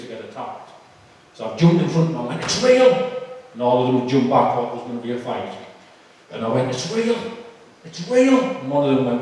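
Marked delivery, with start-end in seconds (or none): 2.4-3.1 high-pitched excited outburst; manic new believer. Retold or imitated. Convert jumping in front of prison officers, manic high cry. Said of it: "like an absolute loony". 6.7-8.4 high-pitched excited outburst; manic new believer. Retold or imitated. Convert jumping in front of prison officers, manic high cry. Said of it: "like an absolute loony".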